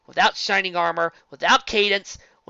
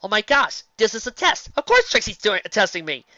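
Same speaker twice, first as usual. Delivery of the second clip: paranoid Twilight impression; 3 semitones higher than usual. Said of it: "Twilight's usual schizophrenia, Lesson Zero self".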